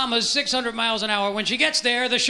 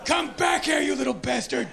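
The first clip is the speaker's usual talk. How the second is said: chasing shout; 5 semitones higher than usual. Acted. Chasing the gerbil.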